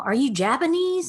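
high-pitched imitated guess; questioning, pitched well up; puzzled classmate. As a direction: mimic a baffled kid guessing. Classmates puzzling over her background.

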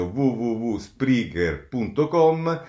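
slow repeated web address; spelling it out. Shown as a demonstration. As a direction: say the address slowly again. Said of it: "quindi lo ripeto".

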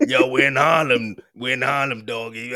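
lightly voiced Harlem rapper; a rapper impression. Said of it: "That's what he sounds like".

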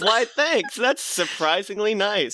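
a hint of wide-eyed gullibility; gullible Betty. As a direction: play the rube who falls for it, mildly. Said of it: "Betty, the rube, almost falls for this".

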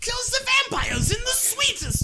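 put-on high, slow Swedish accent. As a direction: lay on a thick Swedish accent. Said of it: "your Swedish accent".

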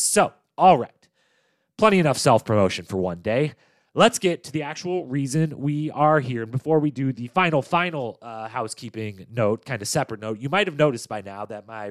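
stuffy nasal voice from a cold. Real, not acted. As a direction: talk through a blocked nose. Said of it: "nasally voice is a little extra nasally".

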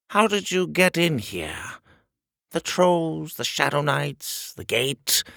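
high, demanding shrill king; furious curiosity, rapid questions; pompous shrill tyrant. Acted. King interrogates.

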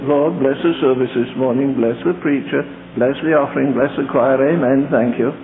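low, hurried, perfunctory mock prayer; mocking rote prayer. Preacher mocking a deacon's lifeless prayer, low and rote. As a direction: rattle it off like an empty church routine.

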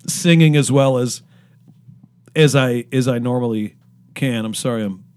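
burping while talking. Real, not acted. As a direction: talk through small burps. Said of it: "I'm burping while I'm talking".

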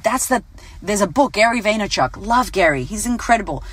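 ordinary talk

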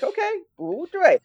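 put-on Okay, bu dui said high in an American accent, flat tones. Freshman repeating the teacher's bu dui in an American accent. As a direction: echo bu dui like an American beginner, tones lost. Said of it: "with my American accent".

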